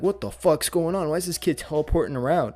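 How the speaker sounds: high, loud, astonished questions; bewildered shouting. Acted. Baffled onlookers watching a kid teleport around, bewildered shouting. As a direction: cry out in total confusion.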